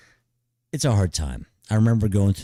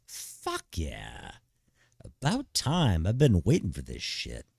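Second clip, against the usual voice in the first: fuck yeah; 3 dB quieter than usual. Shown as a demonstration. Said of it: "No, dude. Be like".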